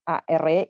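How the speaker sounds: "are" said as one syllable, "ar"; pronunciation demo. Shown as a demonstration. Teacher teaching verb to be, "are" pronounced "ar". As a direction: model "are" with the e silent. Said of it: "se pronuncia".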